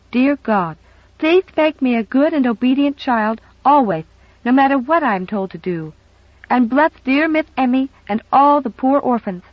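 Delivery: put-on a child's high, earnest prayer. Little girl kneeling to pray, earnest. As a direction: pray it with full sincerity. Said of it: "Very earnestly".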